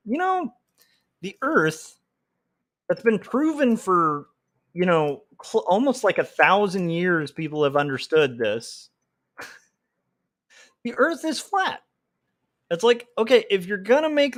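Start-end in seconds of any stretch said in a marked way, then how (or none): 0.1-11.8 lampoon a smug flat-earther; mock flat-earther. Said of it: "make a claim like".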